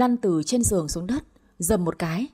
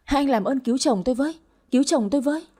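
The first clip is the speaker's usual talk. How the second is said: frantic plea; 4 semitones higher than usual. Acted. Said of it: "Tôi cuống lên nói".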